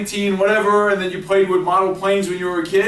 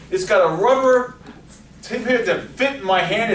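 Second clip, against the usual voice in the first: enthusiastic pitch; 5 semitones higher than usual. Shown as a demonstration. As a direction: sell it like the best pen ever. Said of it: "Enthusiasm sells".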